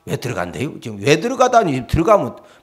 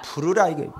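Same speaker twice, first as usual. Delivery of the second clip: ordinary talk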